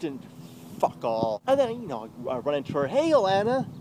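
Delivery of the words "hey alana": higher, acted cheery hello; happy greeting. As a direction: greet her all happy, retold. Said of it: "All happy".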